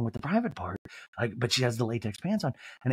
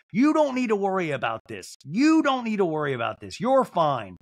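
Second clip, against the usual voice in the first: raised, emphatic reassurance; mock pep talk; 5 semitones higher, 3 dB louder than usual. Host rallying the left-out cast member, emphatic mock reassurance. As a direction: hammer it home higher, falling at the end. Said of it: "give you a little pep talk".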